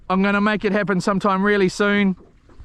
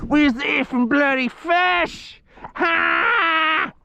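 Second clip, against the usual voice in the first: high, slow hammed-up shouting voice; mock fishwife shout; 8 semitones higher, much slower than usual. Vlogger rants at missing fish in a shrill put-on shout. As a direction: yell like a cross old fishwife.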